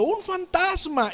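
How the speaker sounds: high, drawn-out mock cry of fear; frightened cry. Preacher voices disciples seeing Jesus on the sea, frightened cry. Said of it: "y dieron voces de miedo".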